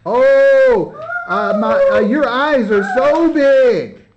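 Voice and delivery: lightly voiced wolf teasing the girls; mock wolf voice. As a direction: stretch it out like a hammed-up wolf. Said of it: "and Mister Wolf says".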